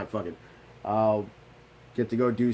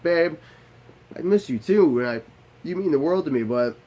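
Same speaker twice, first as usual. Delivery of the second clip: loud pleading; 3 semitones higher, 5 dB louder than usual. Retold or imitated. Pleading with wife to stay.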